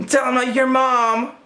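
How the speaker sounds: high gasp then tattling whine; high shocked twin voice; shocked tattling kid. Retold or imitated. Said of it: "he was like".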